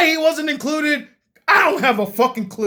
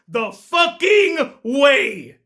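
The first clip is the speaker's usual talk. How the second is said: exasperated rant; much slower than usual. Real, not acted. Ranting about Moana's weak power.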